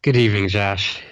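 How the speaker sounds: worn-out sick voice, heavy sigh. Real, not acted. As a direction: speak like you're still ill. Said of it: "You, you sound a little worse for wear".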